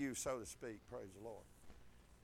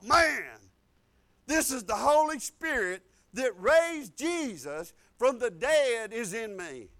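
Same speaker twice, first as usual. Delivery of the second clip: retold amazement; 5 dB louder, slower than usual. Acted awed thought on reading revelation.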